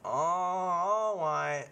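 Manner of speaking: put-on very slow, resigned old man. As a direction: give in with a long weary sigh. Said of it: "can I pretend to be the old man".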